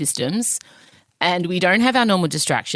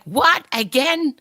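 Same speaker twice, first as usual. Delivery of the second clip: shocked; 9 semitones higher, slower than usual. Retold or imitated. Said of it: "my period still comes as a nasty shock".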